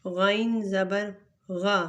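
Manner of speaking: غا said thick from the throat; heavy letter. Shown as a demonstration. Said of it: "غائن کو بھی ہم موٹا پڑھیں گے".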